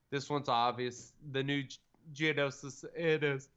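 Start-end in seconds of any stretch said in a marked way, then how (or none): 1.3-3.5 talking through a yawn. Real, not acted. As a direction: yawn mid-sentence. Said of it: "finish my sentence while I yawn".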